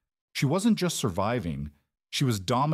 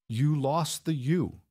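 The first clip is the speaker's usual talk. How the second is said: flat; 6 semitones higher, slower than usual. A narrator's reading. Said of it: "she said flatly".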